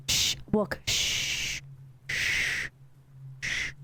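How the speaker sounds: breathy hushed shh, barely voiced; whispered shushing. Real, not acted. Streamer hushing chat during a tense horror moment, whispering. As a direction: hush them like something might hear.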